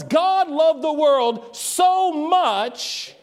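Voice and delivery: slow, with "so much" drawn out; intensified so much. Shown as a demonstration. Preacher rewords the verse, intensifying so much. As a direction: lean long on "so much". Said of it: "intensifies the meaning of the word".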